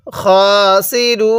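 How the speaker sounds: খাসিরুন ending on a silent ন, no final vowel; stopping pause. Shown as a demonstration. Teacher showing the waqf stop. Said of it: "শেষ হরফের উপরে সাকিন করে দিব".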